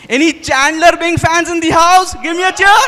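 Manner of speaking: loud and high, rallying the audience; calling out to the crowd. Real, not acted. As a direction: shout it out to get a cheer.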